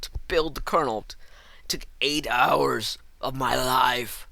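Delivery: breathy, slow, dramatic whisper; whispered lament. Real, not acted. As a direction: sigh it out like a lost cause.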